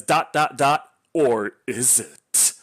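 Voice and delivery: slow teasing cliffhanger read; mock ominous reading. Reviewer mocking the book's final line, slow and ominous. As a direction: ham up the book's smug last line. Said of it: "it says".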